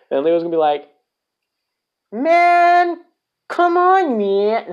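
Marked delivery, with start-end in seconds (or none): 2.1-4.7 much higher, whiny plea from a dumped sidekick; Lio Rush impression. Wrestling fan voicing Lio Rush pleading with Bobby Lashley, high whiny plea. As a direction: squeak it out like a kid begging his partner. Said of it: "I can't even do a Lio Rush impression".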